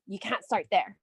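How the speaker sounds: lightly voiced naysayer saying You can't start there; doubting family. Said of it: "your friends and family are like".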